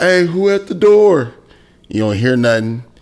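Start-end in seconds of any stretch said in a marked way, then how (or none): 0.0-1.3 loud, high, drawn-out yelling. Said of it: "then you yell out".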